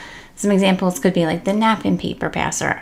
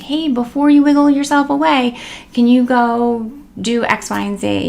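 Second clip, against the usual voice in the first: playful redirect; 5 semitones higher, 4 dB louder than usual. Shown as a demonstration. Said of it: "redirect that behavior and say".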